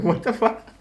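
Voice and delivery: high, loud startled shout; shocked yell. Retold or imitated. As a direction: yell it in sudden alarm. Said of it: "I was like".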